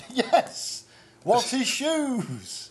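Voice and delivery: laughing. Real, not acted.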